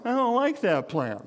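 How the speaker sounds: mock whiny grumble about the plan. Shown as a demonstration. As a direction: whine it like a sulky kid. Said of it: "you say it in a whiny voice".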